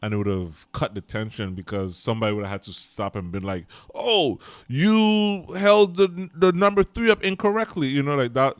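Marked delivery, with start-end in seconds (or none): 3.9-7.9 mock nitpicker. Mock nitpicker interrupting the scene.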